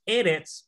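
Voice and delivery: eretz stressed on the first syllable; weight the opening e of eretz; E-retz, strong start, weak end; stress pulled forward. Shown as a demonstration. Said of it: "este segol de acá no puede mantener".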